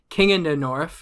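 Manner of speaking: put-on Game of Thrones northern accent; Westerosi accent. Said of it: "that was a northern Westerosi accent".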